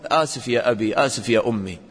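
a son apologising humbly to his parents; humble apology. Shown as a demonstration. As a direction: say sorry humbly, head down. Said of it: "لا، قل".

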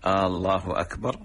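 long opening A on الله, tune lifting at the end; questioning Allah. Shown as a demonstration. Sheikh demonstrating the faulty adhan opening, questioning Allah. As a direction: ask آه، الله أكبر as an incredulous question. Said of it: "لأن هذا استفهام إنكاري".

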